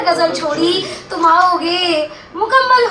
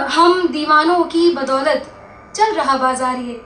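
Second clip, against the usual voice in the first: measured ghazal recital, line by line; mushaira-style verse reading; poetry recitation. Acted. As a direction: recite the couplet with lingering line endings.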